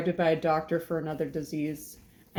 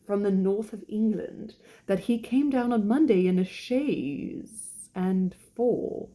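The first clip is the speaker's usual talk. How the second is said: lightly voiced gossipy English lady; slightly lifted voice, drawing out the news; British wife; 3 semitones higher than usual. Wife character delivers her gossip.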